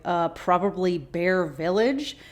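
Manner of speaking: lightly done sarcastic drawl, slow; Sawyer voice. Retold or imitated. Sawyer answers Kate about the polar bear, light sarcastic Sawyer voice. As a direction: toss off a lazy sarcastic quip. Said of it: "that is the Sawyer voice".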